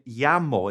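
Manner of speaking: llamo said YAH-mo; Spanish llamo. Shown as a demonstration. Teacher isolating the second word for students. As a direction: repeat llamo alone. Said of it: "M E, and".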